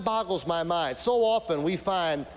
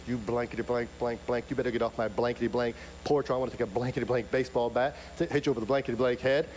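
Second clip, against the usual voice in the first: mock angry old lady; 5 semitones lower, faster than usual. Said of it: "she started to grit her teeth".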